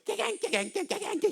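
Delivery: high, sharp mimicked clanging of a gong; gong clang imitation. Shown as a demonstration. Preacher mimics a gong to the congregation, high clanging. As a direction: clang it out like a kkwaenggwari right by the ear. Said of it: "한번 해볼까?".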